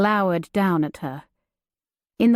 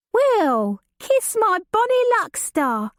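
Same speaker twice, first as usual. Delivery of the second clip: put-on higher, awed young man's voice; breathed in amazement; 12 semitones higher than usual. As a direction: breathe it out, dazzled by her. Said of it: "a young man breathed".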